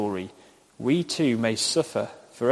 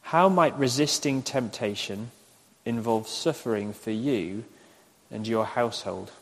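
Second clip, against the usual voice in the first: unhurried question, paused between phrases; slow dictation. Shown as a demonstration. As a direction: repeat it in measured, separated phrases. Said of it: "I'll say them slowly".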